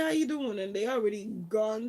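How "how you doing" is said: breezy greeting. Retold or imitated. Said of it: "They just say".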